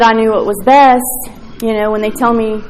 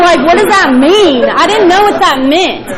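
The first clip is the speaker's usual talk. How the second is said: higher, louder, laughing through the words; 7 semitones higher, 4 dB louder than usual. Real, not acted. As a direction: giggle while asking. Laughing at her own confusion.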